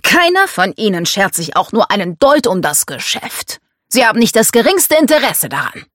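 a hint of a scornful patriarch; mildly exasperated, emphatic father; domineering father, dismissive. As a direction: brush the objection aside firmly.

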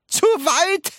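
high, loud incredulous echo; roaring. A narrator's reading. Wonka answering Charlie's question with a roar. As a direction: yell the question back. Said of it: "brüllte Mister Wonka".

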